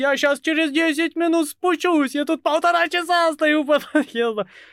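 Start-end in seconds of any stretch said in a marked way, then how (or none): 0.0-2.1 bright, cheery, chipper, upbeat tone. Reminding the listener of their promise before a long wait outside, imitating a chipper voice. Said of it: "бодрым голосом не заявлял".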